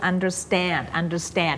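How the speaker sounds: "understand" with the weight on "stand"; slow "understand", last syllable "stand" drawn out strong; stress on STAND. Shown as a demonstration. Teacher pointing out the stress, "understand" stressed on "stand". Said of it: "stress มันอยู่ที่ stand".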